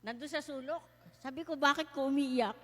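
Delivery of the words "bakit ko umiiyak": asked aloud in alarm, a touch louder; why are you crying, said out loud; retold loud question. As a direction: blurt the question out. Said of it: "hindi ako makasigaw".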